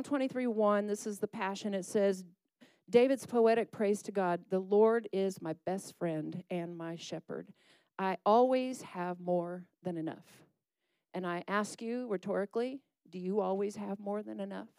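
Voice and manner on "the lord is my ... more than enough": slow, measured psalm reading; scripture reading. Acted. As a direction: read the verse slowly, savouring it. Reads Psalm slowly.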